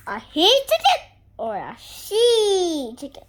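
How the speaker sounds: high, loud giggly voice; laughing high character line. Acted. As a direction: giggle through the silly question.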